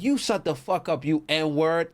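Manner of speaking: high, heated insult thrown back; mock angry retort. A downed player swears back at his robber, high and heated. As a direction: snap it right back at him.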